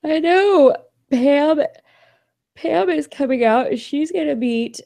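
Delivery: high, loud burst of delight; real excitement, easing slightly as the details start; excited. Real, not acted. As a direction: share thrilling news, pitched well up. Thrilled news of friend's visit.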